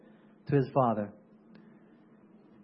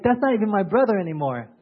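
a hint of a resentful son; imitating angry son. Elder son snapping at his father, mildly mock angry. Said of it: "he was so angry".

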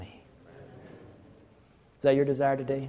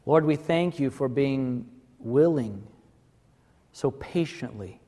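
prayer; 2 semitones lower than usual. Acted. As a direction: pray gently over the congregation. Closing prayer.

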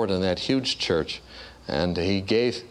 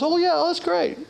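very high, gushing falsetto of a hostess; fake cheery wife. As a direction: overdo the delighted wife. Wife acting pleased.

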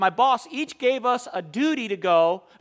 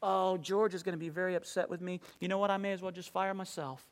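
self-reproach; 8 dB quieter than usual. Retold or imitated. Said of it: "just beat myself up".

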